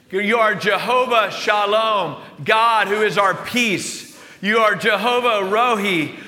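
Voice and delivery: slow, ringing proclamation of God's names; declared with gusto. Acted. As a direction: proclaim each name boldly, drawing out the ends. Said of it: "you can say it with gusto".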